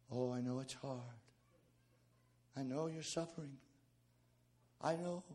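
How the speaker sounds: whiny voice. Retold or imitated. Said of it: "they get that whiny voice".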